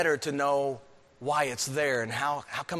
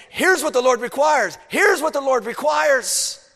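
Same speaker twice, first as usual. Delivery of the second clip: higher, louder proclamation, slowing on the repeat; prophet's call; 11 semitones higher, 9 dB louder than usual. Retold or imitated. Prophet calling people to the Lord's way, loud. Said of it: "He's also saying".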